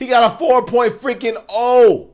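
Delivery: high, loud hype-man shout; hyped announcement. Real, not acted. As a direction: announce it like a game show win. Host hyping DJ's 4.0 GPA.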